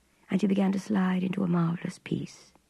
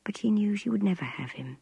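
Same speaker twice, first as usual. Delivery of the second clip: usual speaking voice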